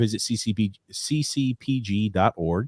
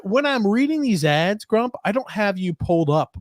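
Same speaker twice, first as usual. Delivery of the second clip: high squeaky voice; 10 semitones higher than usual. Pretend. Continuing in high voice.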